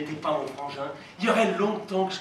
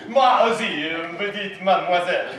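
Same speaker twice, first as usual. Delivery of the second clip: put-on German accent; 5 dB louder than usual. Con man greeting the hostess as a German, put-on German accent. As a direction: fumble for words as a pretend German. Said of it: "pourquoi pas un Germain?".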